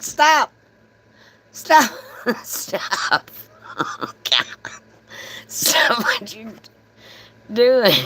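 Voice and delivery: high, wailing plea through laughter; mock crying. Customer runs out to stop the power cutoff, mock crying. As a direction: beg in a hammed-up tearful squeal. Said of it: "I start crying".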